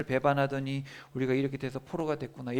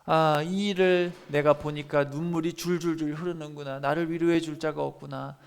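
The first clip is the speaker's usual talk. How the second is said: weeping prophet's lament. Retold or imitated. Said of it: "그런 현실입니다".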